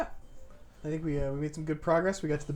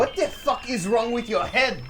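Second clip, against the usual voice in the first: put-on girl character voice; 9 semitones higher, 5 dB louder than usual.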